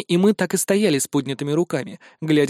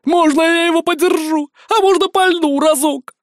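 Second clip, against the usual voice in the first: much higher, louder, eager pleading; breathless excited begging; 11 semitones higher, 6 dB louder than usual. A narrator's reading. Excited girl begging to hold and fire the blaster. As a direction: beg for the gun like a child. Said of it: "выдохнула и произнесла по-русски".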